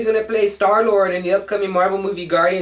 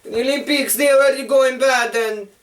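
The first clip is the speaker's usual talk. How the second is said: mock Russian accent; 2 semitones higher than usual. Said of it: "Now I'm talking like Russian".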